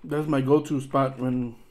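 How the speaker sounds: speaking with food in mouth; mumbled between bites; chewing while talking. Real, not acted. Seen 0: Fry bitten at 1.2, chewing seen through remaining frames.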